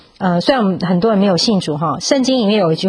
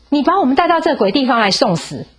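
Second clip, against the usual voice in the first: higher, accusing outburst at Moses; angry complaint; 6 semitones higher than usual. Retold or imitated. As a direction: hurl the blame like a furious crowd. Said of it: "就很生气". (愤怒地指责摩西)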